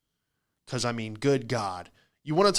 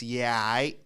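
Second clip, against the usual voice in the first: slurred Queens-accent "Yeah, I"; mock Queens accent catchphrase. Shown as a demonstration. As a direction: run "all right" into one syllable, Queens style. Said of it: "But in the Queen's accent".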